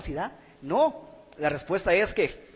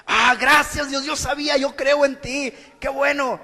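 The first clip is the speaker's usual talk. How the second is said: relieved; 5 semitones higher, 4 dB louder than usual. Retold or imitated. Relieved man thanks God.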